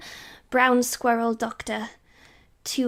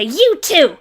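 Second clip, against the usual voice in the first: loud command; 6 semitones higher, 10 dB louder than usual. Acted. Telling the king to settle.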